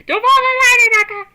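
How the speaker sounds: high, loud laughing plea; laughing call. Acted. Calling to unconscious Inaka not to follow the light, high, loud and laughing. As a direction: call her back from the light, half laughing.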